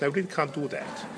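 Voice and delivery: "can't" in posh English; very posh English accent. Shown as a demonstration. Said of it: "in a very posh English accent".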